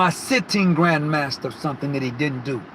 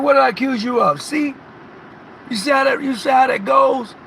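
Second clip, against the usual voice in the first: defensive protest; 6 semitones higher than usual. Retold or imitated. Defensive reply to grand.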